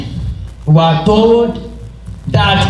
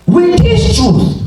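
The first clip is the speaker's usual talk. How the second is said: shouting; 5 semitones higher than usual. Real, not acted. Preacher rising to a climax.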